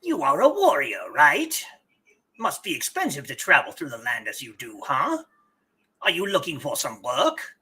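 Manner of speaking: lightly voiced sly weasel; a hint of a sneaky weasel. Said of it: "he gets weasel voice".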